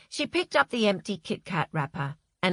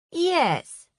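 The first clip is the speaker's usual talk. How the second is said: a gentle, kind yes; kindly; 10 semitones higher, 4 dB louder than usual. A narrator's reading. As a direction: soften it, kindly. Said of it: "said Ashley kindly".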